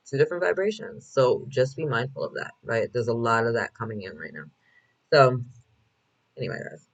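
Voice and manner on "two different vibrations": higher lifted repeat. Shown as a demonstration.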